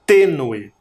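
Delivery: Tênue, TÊ punched then falling; stress on first syllable. Shown as a demonstration. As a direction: land firmly on the TÊ of Tênue. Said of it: "Também tem sílaba tônica". (Tênue com TÊ forte)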